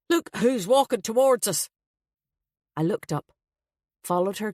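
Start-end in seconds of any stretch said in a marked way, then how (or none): 0.1-1.7 high-pitched urgent warning. A narrator's reading. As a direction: alert a friend urgently, pitch lifted. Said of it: "she said urgently".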